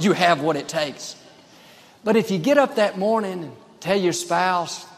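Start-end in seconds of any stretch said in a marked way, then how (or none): 0.0-1.1 steady, assured encouragement at normal pitch; voice of faith. Acted. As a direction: act the inner voice that builds someone up. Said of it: "Another voice will say".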